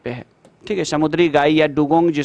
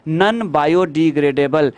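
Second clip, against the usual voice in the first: slow term; much slower than usual. Shown as a demonstration. Teacher gives the English term.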